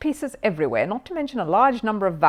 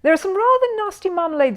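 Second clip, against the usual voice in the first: loud voice; 12 semitones higher, 4 dB louder than usual. Acted. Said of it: "she said in a loud voice".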